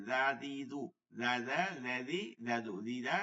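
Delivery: জা said thin, without thickening; thin light জা. Shown as a demonstration. Teacher contrasting with the thick letter, thin light জা. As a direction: keep জা, দি, জু light in the mouth. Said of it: "উচ্চারণটা পাতলা করতে হবে".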